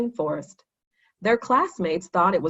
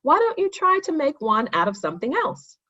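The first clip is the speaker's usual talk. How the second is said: encouraging; 8 semitones higher than usual. A narrator's reading. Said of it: "Jeremy encouraged him".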